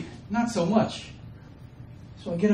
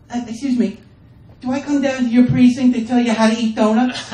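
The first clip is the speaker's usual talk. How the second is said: mock sassy comeback; 5 semitones higher, 5 dB louder than usual. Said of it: "he's like".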